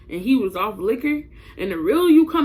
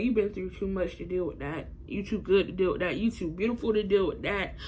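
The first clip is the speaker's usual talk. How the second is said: softer, earnest retold pep talk; gentle reassurance; 2 semitones lower, 6 dB quieter than usual. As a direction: quietly build her up, line by line. Brother's reassurance, acted out.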